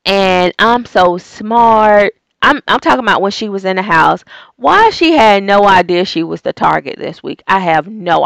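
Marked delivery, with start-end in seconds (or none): 0.1-2.1 smug mock of a know-it-all; slow, smug mock boast; mocking confident. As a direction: lightly play her smug self-praise. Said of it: "act so confident".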